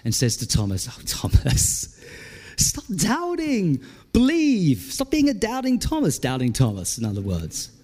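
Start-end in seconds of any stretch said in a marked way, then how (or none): 0.9-6.2 a tender, patient rebuke, lifted high; gentle Jesus. Acted.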